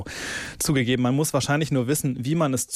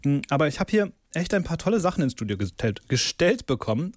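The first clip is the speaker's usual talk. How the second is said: mouth full; 3 semitones higher than usual. Real, not acted. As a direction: still chewing while speaking. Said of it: "warte mal eben ganz kurz schlucken".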